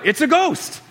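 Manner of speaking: high-pitched mock cry of terror; fearful cry. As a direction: cry out as if spotting a ghost. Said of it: "they cried out".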